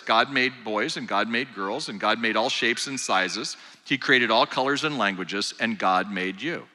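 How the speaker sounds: put-on slow, gentle storybook read to a toddler; lightly voiced bedtime-story tone; talking to a small child. Shown as a demonstration. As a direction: read it like a picture book for a preschooler. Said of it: "You can do that".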